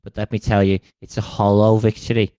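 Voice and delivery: put-on light Scouse accent as a weary old king; lightly voiced Scouse Agamemnon. Agamemnon warns schoolkids in a light Scouse accent. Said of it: "I've made him Scouse".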